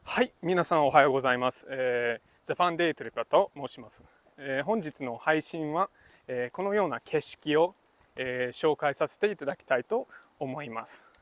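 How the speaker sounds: a light formal presenter tone, unhurried and composed; polite business Japanese. Shown as a demonstration. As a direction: introduce yourself as at a business meeting. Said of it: "one in polite Japanese".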